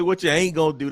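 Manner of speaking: country Southern. Shown as a demonstration. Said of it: "That's very country".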